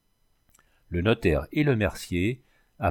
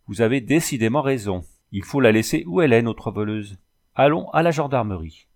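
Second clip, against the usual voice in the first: rising anger. Acted. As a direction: let the anger build as he agrees. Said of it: "sentit monter sa colère". (colère qui monte, plus fort et rapide)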